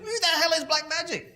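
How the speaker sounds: high, laughing who-the-hell; laughing mock outrage. Mocking rival firms baffled by the new competitor, laughing. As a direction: laugh through the baffled question.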